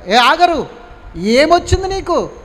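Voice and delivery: scolding angel. Acted. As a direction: chide her like a heavenly messenger. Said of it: "ఈ మాట ఆగరుని అడుగుతుంది".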